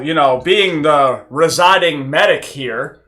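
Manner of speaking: sarcastic. Acted. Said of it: "that was sarcasm".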